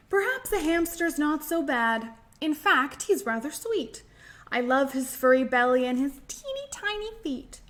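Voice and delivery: lilting storybook read-aloud; sing-song story time voice; reading a rhyme to children. Acted. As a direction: read it like a picture book to little ones.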